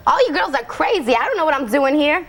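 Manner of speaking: lightly put-on Queens girl voice; Tina's New York accent. Actress doing her Tina accent on request for the hosts. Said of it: "in your best Tina voice and accent".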